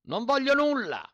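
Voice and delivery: very high loud shout. A narrator's reading. Trapped mender shouts at the landowner, very high. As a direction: scream the refusal. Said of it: "gridò Zi Dima".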